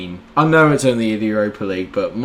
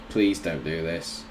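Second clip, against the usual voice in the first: quiet plea; 7 semitones lower, 11 dB quieter than usual. Real, not acted. Tense free kick, pleading.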